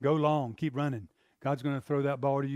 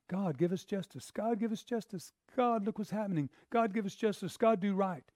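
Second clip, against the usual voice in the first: mild pleading prayer; 5 semitones higher than usual. Retold or imitated. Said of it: "She's crying out".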